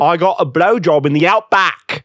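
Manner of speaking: amused mock-Australian; hammed-up Australian twang; Australian accent. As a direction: brag like a comic Australian.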